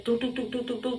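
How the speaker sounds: quick string of knocking doos; imitated knocking. Waking listeners to someone at the door, imitated knocking. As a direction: rattle off a mimicked door knock.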